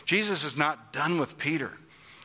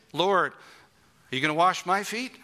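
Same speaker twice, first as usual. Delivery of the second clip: higher, louder, slower incredulous question; shocked disciple pressing his master; incredulous Peter; 6 semitones higher, 5 dB louder than usual. Acted. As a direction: let Peter's disbelief ring out. Peter's question voiced with intensity.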